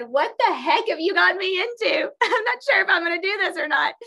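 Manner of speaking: high, laughing "what have I got into"; half-laughing, half-panicked at a friend; high laughing protest; laughing disbelief. Retold or imitated. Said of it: "And I looked at Myra and said".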